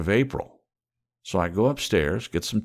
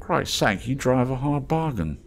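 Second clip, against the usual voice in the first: higher, sly haggler's voice; wheedling trader voice; 8 semitones higher, 3 dB louder than usual. Acted. Scruffy trader teasing the mole, higher and sly. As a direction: coax the stranger like a street trader.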